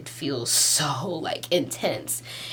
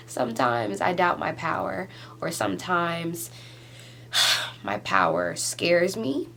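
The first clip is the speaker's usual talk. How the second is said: emotional. Real, not acted. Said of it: "I'm getting emotional".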